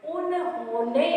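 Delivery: उन्होंने slow and easy, rising at the end, no force; no stress. Shown as a demonstration. Teacher testing for stress, उन्होंने said slowly and unstressed. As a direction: glide through उन्होंने without stressing it. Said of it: "जोर हुआ क्या".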